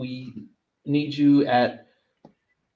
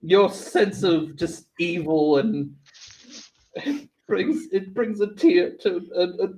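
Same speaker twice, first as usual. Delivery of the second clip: lightly voiced, halting Southern mother; a touch of proud Southern mom; slower than usual. Mom praises child's evil, lightly Southern proud mom. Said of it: "like, a Southern mom's voice".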